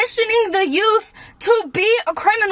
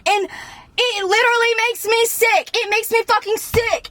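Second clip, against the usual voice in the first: heated, raised voice, pounding each line; angry rant; 3 semitones higher than usual. Real, not acted. Venting to viewers about a rigged system, heated rant. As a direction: let the anger spill out line by line.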